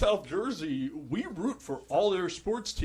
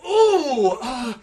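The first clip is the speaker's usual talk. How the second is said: excuse-maker; 4 semitones higher, 6 dB louder, slower than usual. Retold or imitated. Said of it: "They get dumber and dumber".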